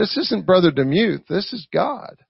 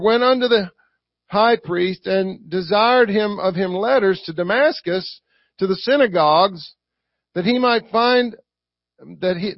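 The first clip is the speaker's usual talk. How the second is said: measured, slightly raised reading voice; scripture reading. Acted. Preacher reading Acts to the church, scripture reading. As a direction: read the verses out to a congregation.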